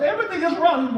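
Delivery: high-pitched imitation of an upset mother; mock crying wail. Mother answering the preacher's question, mock crying wail. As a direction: insist through hammed-up tears. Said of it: "She was crying so vehemently".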